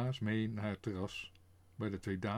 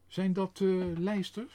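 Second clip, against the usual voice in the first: high, louder puzzled question; 6 semitones higher, 5 dB louder than usual. A narrator's reading. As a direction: ask it amazed at the birds. Baas asks surprised.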